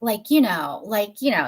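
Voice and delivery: lightly imitated California "like, you know" talk; a hint of Clueless Valley speak; Clueless-style California accent. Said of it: "you do on Clueless".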